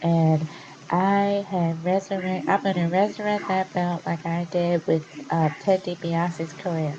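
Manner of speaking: lightly put-on nasal voice, a bit slow; a hint of a nasal wrestler cutting a promo; mock Cody Rhodes. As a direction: poke fun at his nasal promo voice. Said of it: "That's how he sounds. He sounds nasal".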